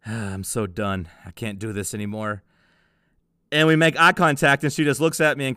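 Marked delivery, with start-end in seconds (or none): 0.1-2.4 retold whisper. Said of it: "she just whispers to herself".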